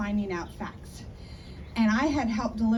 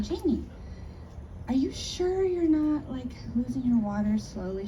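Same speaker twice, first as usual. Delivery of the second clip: concerned friend; 4 semitones higher than usual. Retold or imitated. Friend asks Jamie about her water breaking, concerned. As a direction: ask her gently but pointedly.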